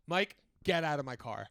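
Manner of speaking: firm, loud order; retold yell. Ex-boyfriend to Mike in the car, loud order. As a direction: bark it at the passenger. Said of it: "looked at me and goes".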